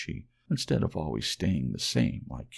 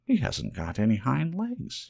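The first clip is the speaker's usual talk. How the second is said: high, louder taunting call; 7 semitones higher, 4 dB louder than usual. A narrator's reading. Wild rabbit calls out mockingly, high and louder. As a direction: call it out high to mock him. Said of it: "he called out".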